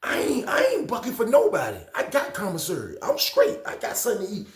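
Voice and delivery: high, loud, strained refusal; defiant refusal. Retold or imitated. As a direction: refuse flatly, voice cracking up high. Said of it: "old head say".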